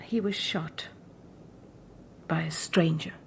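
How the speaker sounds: low, hushed whisper of grief; stricken whisper. Acted. Mother whispering to the visitor how the dog died. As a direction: barely breathe it out. Mother reveals the dog's death.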